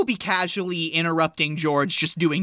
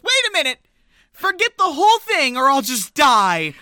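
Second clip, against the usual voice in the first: frantic outburst; 6 semitones higher, 6 dB louder than usual. Retold or imitated. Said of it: "she finally just goes".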